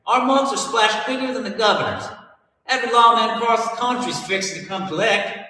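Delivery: put-on high, loud old-time Southern Bonnie; scolding Bonnie in a 1930s Southern twang; 1930s Southern accent. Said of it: "anywhere close to their accents".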